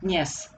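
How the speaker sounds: "Dnes" with a quick, barely heard d; just tap the d in "Dnes"; very short d. Shown as a demonstration. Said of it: "very short d".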